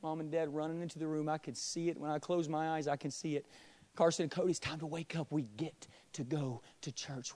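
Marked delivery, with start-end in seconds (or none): 3.9-7.3 put-on gentle mother waking kids. Mother voiced in memory.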